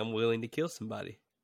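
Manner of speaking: plain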